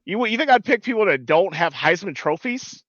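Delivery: hint of a Southern coach talking down to a co-host; Southern accent. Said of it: "talking with a Southern accent".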